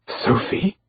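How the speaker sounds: a faint, breathless murmur; half-whispered name; muttered. A narrator's reading. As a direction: barely voice the name. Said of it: "I muttered".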